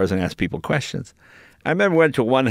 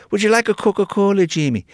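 put-on higher sweet old-aunt voice; aunt offering scone; 8 semitones higher than usual. Aunt offers Jamie a stale scone, higher sweet voice. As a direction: lightly play a doting Scottish aunt. Voicing Scottish aunt in story.

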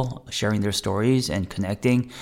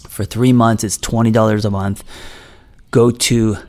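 upbeat, louder podcast ad read; promo read; 7 dB louder than usual. Acted. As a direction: pitch your community to listeners, projecting. Reads a promo for own membership.

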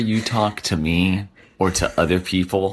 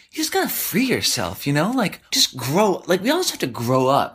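mock preachy advice; 5 semitones higher than usual. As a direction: parody someone spouting self-help wisdom. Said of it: "start spouting off about how".

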